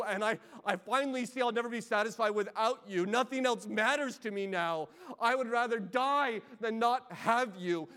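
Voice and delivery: loud, pleading cry of a man who won't let go; a preacher crying out as Jacob, loud and desperate; desperate plea. Acted. Jacob pleading loudly with God, desperate, refusing to let go.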